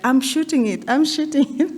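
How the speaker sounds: high, eager mock reply; imitated wife. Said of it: "and she's like".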